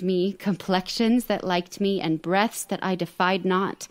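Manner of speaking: put-on measured theatrical recitation, no British accent; Shakespeare monologue. Actress reciting Rosalind's epilogue to podcast hosts, theatrical and measured. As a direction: deliver the epilogue straight to the audience.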